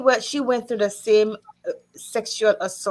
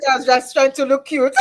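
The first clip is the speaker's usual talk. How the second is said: high, loud, through laughter; laughing; 4 semitones higher, 6 dB louder than usual. Real, not acted. Joking with friends about her outfit, laughing. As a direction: blurt it out laughing.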